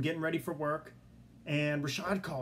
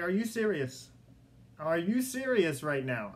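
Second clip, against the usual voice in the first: higher, amazed asking again; excited disbelief, drawing it out; still stunned; 3 semitones higher, 4 dB louder than usual. Retold or imitated. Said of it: "I couldn't stop saying".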